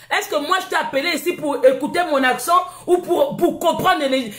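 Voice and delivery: laughing through a scornful question. Real, not acted. Live host mocking a critic, laughing scornfully. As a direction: laugh at him while you ask it.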